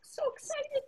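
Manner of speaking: soft whisper to the listeners; whispered aside. Acted. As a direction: whisper it like a secret.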